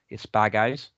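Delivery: Australian accent with a rising end. Shown as a demonstration. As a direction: say it as an Australian would. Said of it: "sounds really good in Australian accent".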